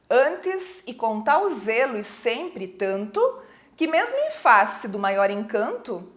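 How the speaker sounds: measured, lightly formal verse reading; poem recitation. Acted. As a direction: recite the verse line by line, pausing between lines.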